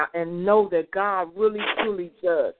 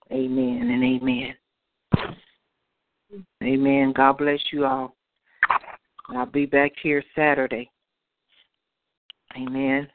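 earnest closing prayer to God; 3 semitones lower than usual. Acted. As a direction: pray it from the heart.

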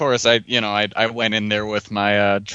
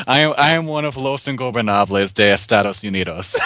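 laughing proclamation. Real, not acted. Jokey declaration amid laughter.

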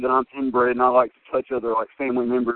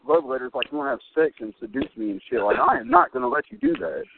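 mock telling off; 3 semitones higher than usual. Retelling telling off burnt woman.

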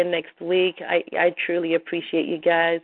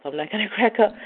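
laughing through tears; 4 semitones higher, faster than usual. Real, not acted.

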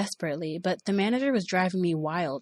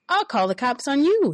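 higher, louder mocking echo; mocking threat; 8 semitones higher, 6 dB louder than usual. Boss echoing her cop threat, louder mocking. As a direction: throw her threat back at her. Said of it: "he said".

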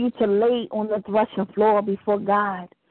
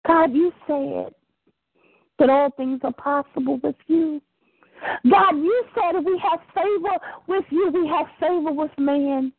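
fervent prayer; 3 semitones higher than usual. Shown as a demonstration. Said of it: "begin to remind him of his word".

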